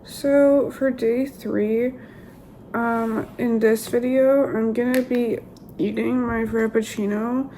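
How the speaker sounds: rough, strained voice after surgery; hoarse voice. Real, not acted. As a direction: speak through a sore, damaged throat. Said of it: "my voice is also really bad".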